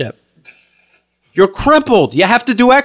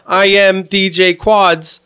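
slow reading; much slower than usual. Retold or imitated. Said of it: "it said in girl's handwriting".

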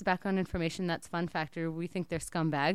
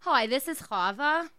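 put-on Jewish accent; 6 semitones higher, 6 dB louder than usual. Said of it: "I'm gonna be in an accent".

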